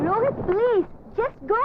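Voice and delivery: exasperated plea. Acted. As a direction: beg them sharply to leave. Quarrel, telling Rohit to leave.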